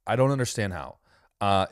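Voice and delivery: normal talking voice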